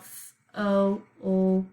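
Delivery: "f-o-o-k" slowly, each sound apart, L sounded; think-to-spell pronunciation. Shown as a demonstration. Teacher repeating the spelling version, slow separate sounds. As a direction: say "f-o-o-k" as f, oh, ull, k. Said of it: "we're going to think to spell".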